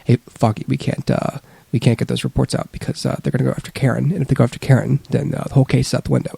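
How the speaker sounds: mock flat, gruff American hero line; monotone growl. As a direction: imitate an actor muting himself to hold an accent. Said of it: "they tend to have to just growl or monotone their lines".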